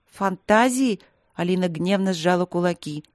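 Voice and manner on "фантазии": indignant. Acted. Indignant echo of his word.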